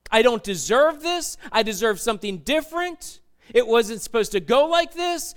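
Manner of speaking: indignant, emphatic acted complaint; angry with God. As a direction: protest to God, punching the key words. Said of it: "you're angry with God".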